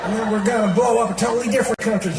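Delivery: talking out of the side of the mouth; George Bush. Acted. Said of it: "speaking out of the side of his mouth".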